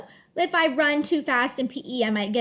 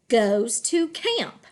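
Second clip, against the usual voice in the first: slow, connected "Goes to camp"; drawn-out "Goes to camp" falling at the end; smooth phrase reading; slower than usual. Shown as a demonstration. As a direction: glide through "Goes to camp" as one phrase. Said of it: "read smoothly in phrases".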